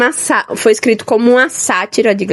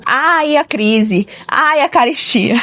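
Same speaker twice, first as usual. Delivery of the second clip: drawn-out mock lament; Euricão; 4 semitones higher, much slower than usual. Reader quoting a miser's catchphrase, mock lament. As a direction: wail lightly like a penny-pincher bemoaning hard times. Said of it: "E ele fala muito".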